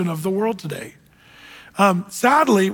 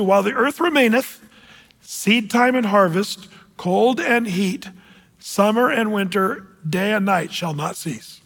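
slow, deliberate verse reading; scripture reading. Acted. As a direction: space out each pair of words like a list of promises.

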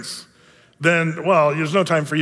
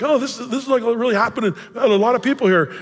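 impressed newcomer; 5 semitones higher than usual. Retold or imitated. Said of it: "they're like".

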